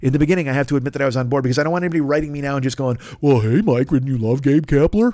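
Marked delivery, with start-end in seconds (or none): 3.2-5.1 glum, mopey, downcast sad cartoon voice. Speaker imagines listeners writing in about the fired manager, in an Eeyore voice. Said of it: "I don't know what cartoon character that is".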